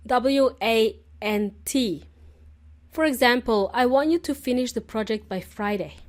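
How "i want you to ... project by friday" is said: "want" said firmly as a bossy order; demanding. Shown as a demonstration. A boss telling a colleague the deadline, demanding. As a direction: give it like a boss insisting. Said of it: "it sounds very demanding".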